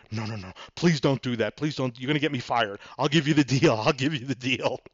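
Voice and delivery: hammed-up begging in a put-on voice; mock panicked pleading. Salesman begging buyer not to get him fired, mock panicked pleading. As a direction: imitate a rattled salesman begging. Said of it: "he starts shaking his head".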